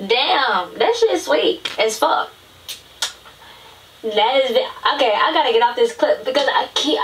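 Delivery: talking while openly crying, tearful. Reacting to a clip while watching it, crying while talking. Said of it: "I can't stop fucking crying".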